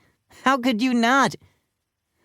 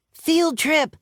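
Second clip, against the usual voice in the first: excited yell; 12 semitones higher than usual. A narrator's reading. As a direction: cheer like a thrilled pupil. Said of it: "yelled Alexia".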